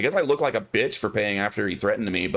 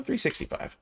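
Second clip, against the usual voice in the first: whispered number; 6 dB quieter than usual. Real, not acted. Whispering the haggle price.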